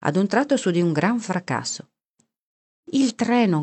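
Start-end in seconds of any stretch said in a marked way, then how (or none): 2.9-3.6 high, excited exclamation; high-pitched narrated shout of joy; joyful cry. A narrator's reading. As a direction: cry out in wild delight, kept moderate. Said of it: "gridò Melo, saltando fuori pazzo di gioia".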